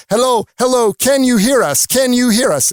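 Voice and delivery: urgent mayday voice from a sinking boat; distress call. Retold or imitated. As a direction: call out like sailors on a sinking ship. Sinking ship calling on the radio.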